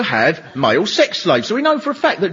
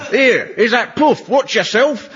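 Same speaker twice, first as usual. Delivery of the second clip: mock paranoid bloke; 5 semitones higher, slower than usual.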